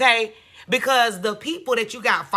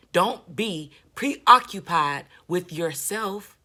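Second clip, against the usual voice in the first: mocking preacher voice; 3 semitones lower, slower than usual.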